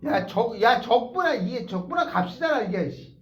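frustrated. Real, not acted. Teacher frustrated at the board.

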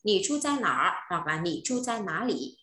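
slow, deliberate "Nỉ chu trai nỏ" with a curled tongue; slow teacher model of "Nỉ chu trai nỏ hoặc là nỉ chu trai ná lỉ"; careful slow model. Shown as a demonstration. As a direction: spell out "nỏ" with the tongue curled back, then "ná lỉ". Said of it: "phải đọc uốn lưỡi lên".

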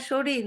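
"সরি" said as sho-ri, with r for d; alternative name pronunciation. Shown as a demonstration. Host unsure of viewer's name, tries "সরি" as sho-ri. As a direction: try "সরি" with a flapped r in place of d. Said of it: "উচ্চারণটা কেমন হবে".

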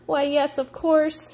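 high, flustered gasp. A narrator's reading. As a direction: agree in a nervous gasp. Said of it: "she gasped".

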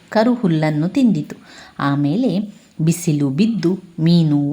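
reads the folk tale aloud to the class, evenly paced; story reading. A narrator's reading. Teacher reading the prawn story to pupils, storytelling voice. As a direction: tell it like a children's tale, with the characters' questions lifted.

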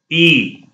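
ई said long and clear like English e; German letter name. Shown as a demonstration. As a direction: model ई as a clean long ee. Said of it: "ये English वाले ई की तरह sound है इसकी". (German ई साफ़ लंबा बोलें)

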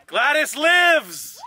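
slow, drawn-out proclamation; triumphant. Real, not acted. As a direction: announce it like a resurrection. Triumphant car announcement.

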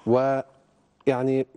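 tentative, with drawn-out filler words; hedging, unsure how to put it; hesitant. Real, not acted. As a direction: feel your way uncertainly into a delicate point. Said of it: "بقولها هيك بتردد، يعني بعدم يقين".

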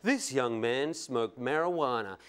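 low, slow scare-story voiceover; mock a tabloid reporter, drawing it out ominously; Current Affair reporter. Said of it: "we'll see stories like".

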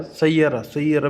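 সাইয়ারা as "sai-ya-ra", with a y glide. Shown as a demonstration. Teacher corrects to the common form সাইয়ারা, demonstrating pronunciation. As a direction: say সাইয়ারা smoothly in three syllables. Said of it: "বেশিরভাগ উচ্চারণ হয় আর কি".

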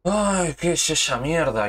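loud, slow, disgusted cry; angry outburst. Real, not acted. Gamer shouting at his own team's bad play, loud and disgusted. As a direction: drag it out in disbelief.

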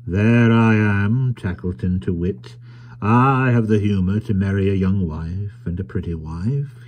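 slow, drawn-out opening words; lightly voiced self-satisfied trader. Tackleton explaining his marriage to the carrier, self-satisfied. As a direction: spell it out with relish.

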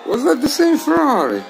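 can't believe it's him again; surprised. Real, not acted. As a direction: streamer amazed the same Ferrari is back, surprised. Spots a rival car again.

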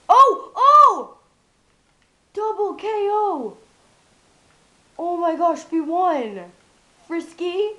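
high, shrieking victory scream; shrieking jackpot winner. Real, not acted. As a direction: scream in triumph at the win. Winning the game, screaming.

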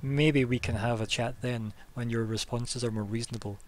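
slow, firm rebuke; a touch of a stern official putting a foot down; stern reproach. Acted. The official silencing Adair, slow and firmly stern. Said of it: "puts her finger up to stop you talking".

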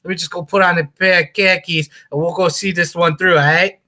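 a mild, hammed-up Boston accent. Honoring the Patriots for his cohost, mild hammed-up Boston accent. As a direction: play a brash Boston fan, lightly. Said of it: "your Boston accent and your Philadelphia accent".

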